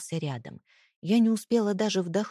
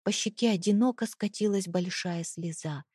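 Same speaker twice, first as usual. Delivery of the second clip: ordinary delivery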